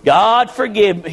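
low, penitent plea to God; humble yourself and pray it low; acted prayer of repentance, voice falling away; humbled prayer. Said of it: "we can humble ourselves and say".

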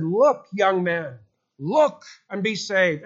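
slow, emphatic appeal on "look"; lightly voiced preacher singling out one listener; mildly preaching farmer. Farmer preaching directly at young Spurgeon.

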